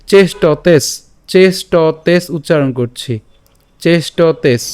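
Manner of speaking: "চেষ্টতেস" slowly, with the final s attached; closing on S. Shown as a demonstration. Teacher splitting the phrase for learners, careful "চেষ্টতেস" ending on s. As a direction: end "চেষ্টতেস" firmly on the s. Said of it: "আমরা চেষ্টতেস পর্যন্ত উচ্চারণ করব".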